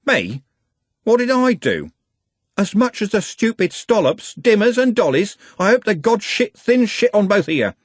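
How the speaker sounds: high, loud outraged shouting; screaming. Acted. Trev cursing Andy and the gang, outraged scream. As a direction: scream your curse at them.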